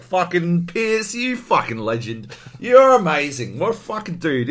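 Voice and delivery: delighted mock cheering for the hero; cheering fan. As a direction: gush like a thrilled fan at the screen. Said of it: "You're like".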